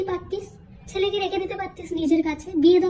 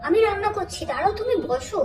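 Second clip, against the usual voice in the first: higher, sugary fake-polite voice; butter up the mother-in-law, higher pitched; fake sweetness; 4 semitones higher than usual. Daughter-in-law sweet-talking mother-in-law, high fake sweetness.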